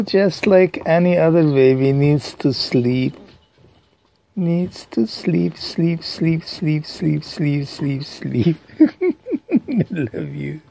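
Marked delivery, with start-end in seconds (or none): 4.4-10.6 soft lullaby murmur. Acted. Lulling pet to sleep.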